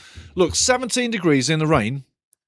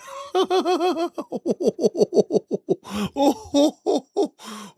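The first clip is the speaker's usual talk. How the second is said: a long, high burst of real laughter; big high laugh; 12 semitones higher than usual. Real, not acted. Reacting to sarcastic chat message.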